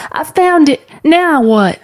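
put-on high-pitched child calling back; shouted back. Girl in the river answers mama, shouting back. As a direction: call back impatiently, pitched well up. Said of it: "Gid shouted back".

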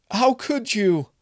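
high, loud, broken reproach; anguished cry. Acted. Maria crying out at Kevin over the broken jar. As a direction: cry out in disbelief.

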